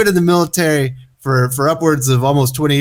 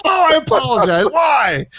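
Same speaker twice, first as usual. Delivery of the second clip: laughing mock apology; 13 semitones higher than usual. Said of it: "Yeah, you have to".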